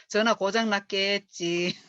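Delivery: slow, mild shrug-off; unbothered. Shown as a demonstration. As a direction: brush it off calmly. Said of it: "이렇게 그냥". (대수롭지 않게 느긋하게)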